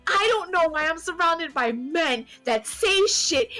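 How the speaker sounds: high-pitched exasperated rant; fuming. Retold or imitated. Fuming in bed to her partner about men, exasperated. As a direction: vent it, pitched right up in indignation. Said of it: "I'm fuming. Like, I'm so pissed off".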